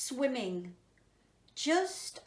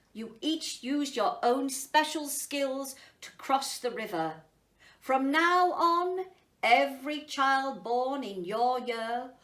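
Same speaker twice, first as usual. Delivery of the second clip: emperor's speech; 2 semitones higher, 6 dB louder than usual. Acted. Emperor addresses animals.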